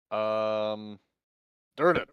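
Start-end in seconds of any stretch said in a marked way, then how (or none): 1.8-2.1 calling out. Acted. Calling the innkeeper loudly.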